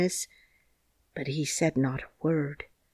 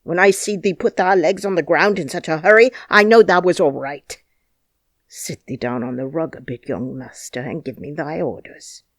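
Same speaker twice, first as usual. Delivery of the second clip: put-on old gardener in broad Yorkshire dialect, loud then hushed; 7 dB louder than usual. A narrator's reading. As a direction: voice the crabbed old gardener, tender underneath. Ben Weatherstaff speaking in dialect.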